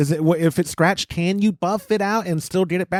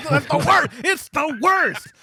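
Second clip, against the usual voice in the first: laughing; 9 semitones higher, slower than usual. Real, not acted. Laughing at friend's teasing.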